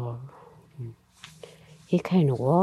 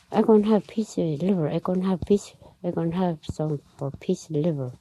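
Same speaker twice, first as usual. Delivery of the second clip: quick, higher-pitched grabbing chatter at the start, easing down; lightly acted, hurried claims tumbling over each other; clamouring fish; 3 semitones higher, faster than usual. Fish racing after the liver, lightly acted clamour. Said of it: "Just like that".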